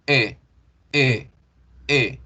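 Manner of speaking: "E" rounded and thicker; thickened E. Shown as a demonstration. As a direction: round the lips for a fuller E. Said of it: "Se engruesa un poquito el sonido".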